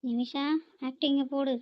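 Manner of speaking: low hushed cue to start the act; hushed aside. Real, not acted. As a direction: sister whispers to herself before faking tears, hushed. Whispered aside to start acting.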